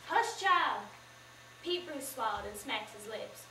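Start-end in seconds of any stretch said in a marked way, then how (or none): 0.1-0.8 hushing sharply. Acted. Mama silences her daughter.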